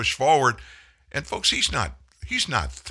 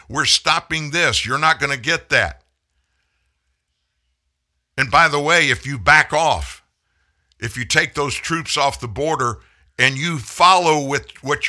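louder, higher, punchy and fast in spots; firm ultimatum; 4 semitones higher, 5 dB louder than usual. Pretend. Telling Putin how he should have been warned, forceful. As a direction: lay down the law to Putin. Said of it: "sanction them today and say".

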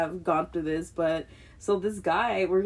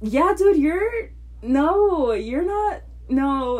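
high, loud flustered refusal; emphatic refusal; 8 semitones higher, 6 dB louder, much slower than usual. Retold or imitated. Turning down the guy's next round, loud emphatic no. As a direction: shut him down, exasperated.

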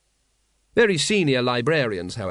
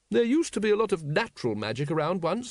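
thoughtful; 6 semitones higher than usual. Acted. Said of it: "said Lady Ramkin thoughtfully".

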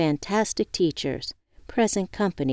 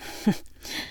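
soft laugh; 6 dB quieter than usual. Acted. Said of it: "I smiled and somewhat laughed".

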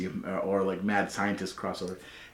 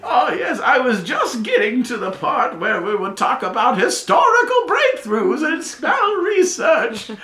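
put-on eccentric old professor; 8 dB louder than usual. Professor interrupting to keep lecturing.

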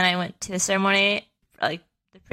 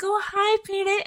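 affectionate greeting; 13 semitones higher than usual. Retold or imitated. Dad greets daughter jumping into arms.

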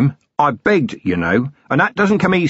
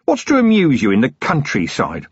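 higher-pitched, disgruntled rant; exasperated grumbling; 7 semitones higher than usual. Acted. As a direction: rail against a dreaded trip. Acted rant against the countryside.

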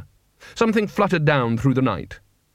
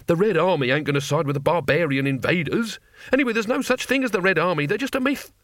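soldier voice; 5 semitones higher than usual. Acted. Soldier arguing.

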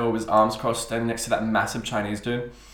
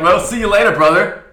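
higher, louder cheerful goodbye; breezy customer farewell; 7 semitones higher, 10 dB louder than usual. Retold or imitated. Customer sending off the delivery guy, loud cheery bro goodbye. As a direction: brush him off like a buddy.

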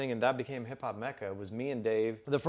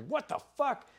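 high, shocked burst; retold stunned reaction; 14 semitones higher than usual. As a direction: play the jaw-drop moment. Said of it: "and I'm like".

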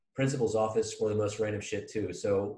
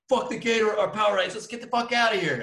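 higher, louder panicked rush to flee; panicked whisper-shout; 11 semitones higher, 6 dB louder, faster than usual. Retold or imitated. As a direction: urge your buddy to bail, fast and high. Panicked kids fleeing vice principal.

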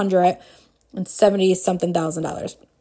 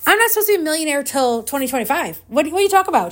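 retold disbelief; 6 semitones higher, much faster than usual. Retold protest to coach's claim.

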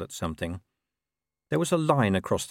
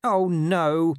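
high, louder dog groan of dismay; dismayed moan; 8 semitones higher, 5 dB louder than usual. A narrator's reading. Dog picked up by the scruff, high dismayed moan. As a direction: moan it as a dog who's been caught. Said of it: "the dog moaned".

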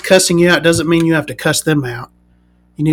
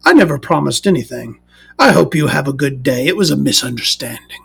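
dignified gentleman; 2 semitones lower than usual. Retold or imitated. Seller's own reply redone properly, calm dignified voice. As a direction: say it like a composed gentleman. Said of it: "Let me do that voice properly".

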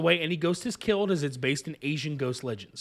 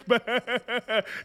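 silly higher mock fish laugh; 5 semitones higher than usual. Quoting the dub's fish laugh, mock Irish. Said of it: "That's a fish laugh".

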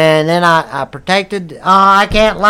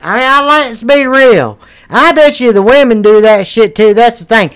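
loud rant; 3 semitones higher, 6 dB louder than usual. Real, not acted. Rants at the audience.

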